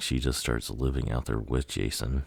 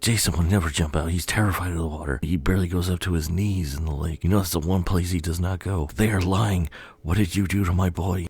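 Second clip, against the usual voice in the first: higher-pitched, acted protest building to accusation; indignant mother; 5 semitones higher than usual. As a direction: defend your son, distraught and insistent. Voices mother accusing campers.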